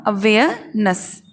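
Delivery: अवेयरनेस slowly as "uh-WAY-uh... nuhs"; silent r. Shown as a demonstration. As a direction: drop the r and pause before the last syllable of अवेयरनेस. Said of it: "आर को silent".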